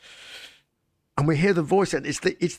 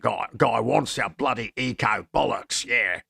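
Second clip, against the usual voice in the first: comedy Australian. Retold or imitated. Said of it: "absolute comedy Australian".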